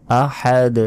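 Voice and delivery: আহাদ ending with a bounced, echoing d; bounced final d. Shown as a demonstration. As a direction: give আহাদ a jolt on the last d. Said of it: "শেষে ধাক্কা দিয়ে পড়তে হবে".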